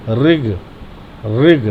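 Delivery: "ऋग" with a light trilled र, like in ऋषि; correct pronunciation. Shown as a demonstration. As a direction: let the tongue vibrate lightly on "ऋग". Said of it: "जीभ में कंपन हल्का सा पैदा होगा". ("ऋग" में हल्का कंपन)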